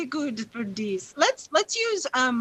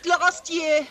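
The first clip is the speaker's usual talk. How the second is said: put-on sympathetic old widow; 5 semitones higher than usual. NPC widow consoling Zelda.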